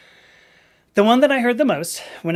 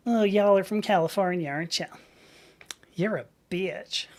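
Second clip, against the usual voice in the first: put-on Georgia accent; 3 dB quieter than usual. Local to a Californian, mock Southern accent. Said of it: "it's a Georgia accent".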